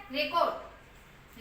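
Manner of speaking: रिकॉर्ड said slowly as rekoɖ, long O; slow pronunciation demo. Shown as a demonstration. Teacher showing students how to say रिकॉर्ड, slowly. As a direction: drag out रिकॉर्ड syllable by syllable. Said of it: "रिकॉर्ड नहीं होता".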